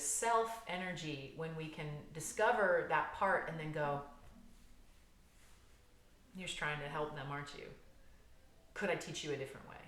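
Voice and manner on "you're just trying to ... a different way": gentle reassurance. Acted. Adult self to the protective part, gently reassuring. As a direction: speak softly, as if to a misguided child.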